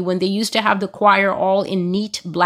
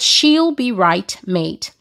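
a hint of Aussie, dropping on mate; Australian accent; slower than usual. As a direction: quote it slowly with a slight Australian lilt. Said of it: "I heard it in their accent".

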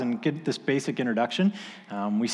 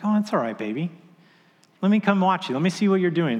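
reassuring father; 5 semitones higher than usual. Retold or imitated. Comforting his frustrated daughter.

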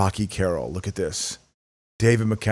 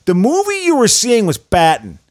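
high, louder radio movie-review voice; regular guy movie reviewer; 7 semitones higher, 4 dB louder than usual. Retold or imitated. Imitating the regular guy's radio review, announcer voice. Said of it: "I remember him reviewing".

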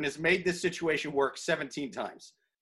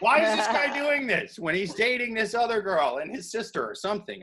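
high-pitched opening, settling toward own voice; mock letter-writer's plea, lightly put on; lightly voiced housekeeper; 5 semitones higher than usual. Housekeeper writing to Yahoo Answers about her boss, lightly mocked. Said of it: "His housekeeper is going".

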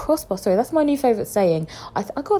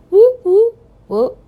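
loud, high celebratory whooping; excited whoops; 12 semitones higher, 8 dB louder, slower than usual. Real, not acted. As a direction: cheer like you just heard great news. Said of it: "I'm really happy".

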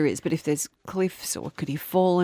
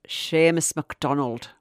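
Scottish accent attempt. Shown as a demonstration. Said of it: "I can't do Scottish. Go".

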